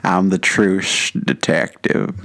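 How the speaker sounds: slow, loud, slurred-S drawl; Matthew McConaughey. Acted. Co-host correcting the actor's S, slow creaky drawl. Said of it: "your S's needs to be more".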